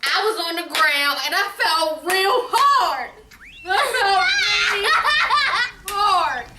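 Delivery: words broken up by real laughter; can barely get it out for laughing; laughing through it. Real, not acted. Mother laughing while telling her own fall.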